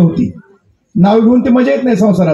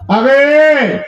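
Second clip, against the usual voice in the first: higher, drawn-out hail; calling out; 4 semitones higher, much slower than usual. Acted. Husband's voice reaches his wife indoors, calling out. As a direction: call again through the door, stretching it. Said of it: "आवाज आला".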